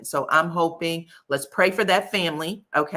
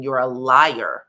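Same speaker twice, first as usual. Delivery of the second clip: imitating angry father; 2 semitones lower, 6 dB louder, much slower than usual. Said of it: "you hear the father saying".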